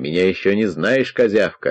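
ordinary delivery

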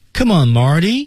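rising intonation on "Marty". Analyzing the intonation of an english line in chinese: rising intonation on marty. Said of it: "升调".

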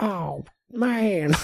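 cute, tiny, soft, high little voice. Retelling a Rick and Morty scene: Rick and Morty janitor voice. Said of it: "that little guy's voice".

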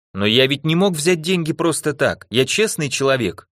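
plain

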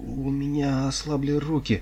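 high, quavering, trembling voice. A drummer answers an overseer who is shouting at him, trembling voice. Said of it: "дрожащим голосом проговорил барабанщик".

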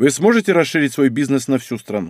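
ordinary delivery

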